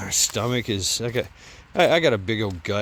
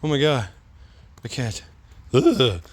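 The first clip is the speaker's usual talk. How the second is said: mock exhausted whine. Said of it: "I was like".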